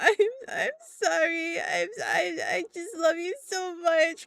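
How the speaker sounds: put-on very high, weepy, clingy, tearful drunk blubbering. Describing own behavior when too drunk and sad: imitating a sad clingy drunk. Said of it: "I will immediately turn into the".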